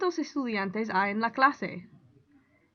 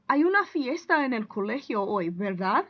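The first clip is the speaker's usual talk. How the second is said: verdad rising at the end as a tag question; 4 dB louder than usual. Shown as a demonstration. Teacher modelling a tag question for students, rising. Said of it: "you can add a tag word".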